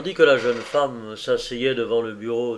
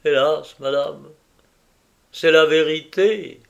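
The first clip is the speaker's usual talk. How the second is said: tearful voice; 4 semitones higher, 7 dB louder than usual. A narrator's reading. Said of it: "d'une voix dans laquelle il y avait des larmes".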